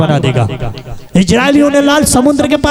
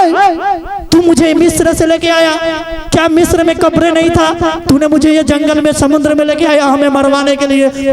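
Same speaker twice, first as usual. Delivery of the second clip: higher-pitched imitation of grumbling Israelites; grumbling complaint; 5 semitones higher than usual. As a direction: hurl an accusing complaint at Moses, as a preacher retells it. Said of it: "उन्होंने कुड़कुड़ाने लगा". (कुड़कुड़ाते लोगों की नकल, ऊँचे सुर में शिकायत)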